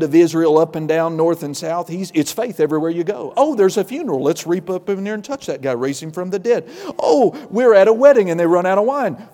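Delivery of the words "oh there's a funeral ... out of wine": breezy, higher, louder miracle-a-minute voice, laughing at the end; casual excitement. Retold or imitated. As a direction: play Jesus as if miracles are everyday fun. Jesus voiced casually doing miracles.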